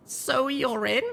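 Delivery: high, eager question; young mare asking. A narrator's reading. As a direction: check who's with you. Littlepip asking.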